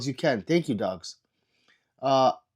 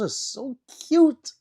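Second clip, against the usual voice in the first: whisper; 12 semitones higher, 4 dB louder, much slower than usual. Real, not acted. Whispers about floating hearts.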